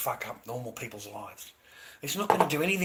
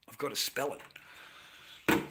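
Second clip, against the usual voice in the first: slow, hushed whisper; whispering that he has to spell the word; 4 dB quieter, much slower than usual. Real, not acted. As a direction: lean in and whisper it like a secret.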